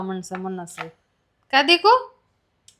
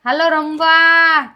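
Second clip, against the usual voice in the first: calling out; 2 semitones higher, 3 dB louder, much slower than usual. Real, not acted. Calling Ojas to come play.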